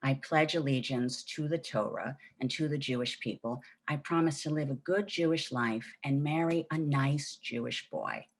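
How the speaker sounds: measured, drilled-in pledge; recited childhood prayer. Acted. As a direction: recite it like a bedtime prayer learned by rote. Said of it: "she drummed this prayer into us every night".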